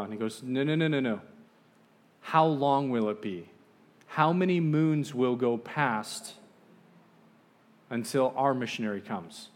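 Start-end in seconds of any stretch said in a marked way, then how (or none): 0.4-1.2 insistent refusal. Retold or imitated. Chief rejects the vague answer. 2.2-9.5 slow, emphatic, raised questioning; insistent demand. Retold or imitated. Tribal chief pressing the visitor for an answer, slow insistent demand.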